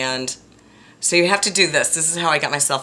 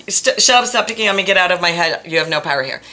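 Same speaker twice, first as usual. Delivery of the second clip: telling it off; 3 semitones higher, 5 dB louder than usual. Retold or imitated. To the mean voice in her head, a loud telling-off. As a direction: shout it down then settle. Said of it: "Or sometimes".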